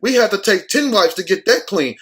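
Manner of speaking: mock attendants. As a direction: beg like a disgusted attendant. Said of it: "They're like".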